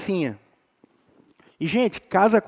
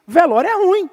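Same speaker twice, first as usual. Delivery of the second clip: "é" pushed higher and louder; stronger emphatic repeat; 8 semitones higher, 3 dB louder than usual. Real, not acted. Preacher insisting to the church that "é" is true. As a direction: drive "é" home harder.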